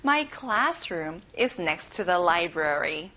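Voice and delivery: slow, stress on "my", rising end; very slow repeat. Shown as a demonstration. Teacher repeats the sentence slowly for children to copy. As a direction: say it again slowly for echo. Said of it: "같이 따라해봐요".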